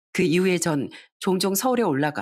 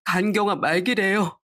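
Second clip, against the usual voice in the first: tearful, crying. Acted. Son tells his mother of his illness, crying. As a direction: hold back tears, slowing toward the end. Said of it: "서럽게 울면서".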